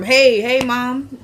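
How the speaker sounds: retold nagging for her attention; calling for attention. Son to the mother ignoring him, pestering. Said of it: "she trying to ignore him".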